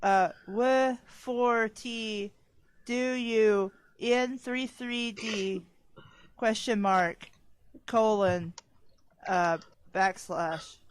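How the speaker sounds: slow, halting computer read-out; lightly voiced robot, piece by piece; robot reading aloud. Shown as a demonstration. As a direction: spell out each symbol like a robot. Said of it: "like, how robots talk".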